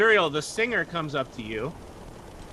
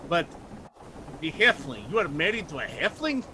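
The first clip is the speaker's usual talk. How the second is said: frustrated; 3 semitones higher than usual. Acted. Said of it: "he gets really frustrated".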